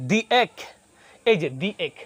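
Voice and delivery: the pronounced "dee" in "the egg"; "dee" before vowel. Shown as a demonstration. Teacher shows the article before a vowel, "the egg" as "dee egg". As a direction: say "thee egg", long ee in the. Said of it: "the into the".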